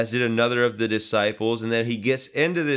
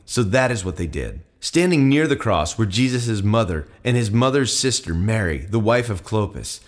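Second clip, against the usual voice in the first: steady, slightly louder Bible reading; scripture reading; 4 dB louder than usual. Acted. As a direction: read the passage out to the congregation. Reads the scripture passage aloud.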